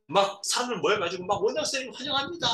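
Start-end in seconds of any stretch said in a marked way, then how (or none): 1.4-2.5 high, fast welcoming cheer; acted crowd welcome. Staff greeting the new director, eager welcome.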